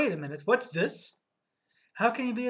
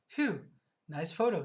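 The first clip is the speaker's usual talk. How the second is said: sarcastic; slower than usual. Acted. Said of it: "he says sarcastically".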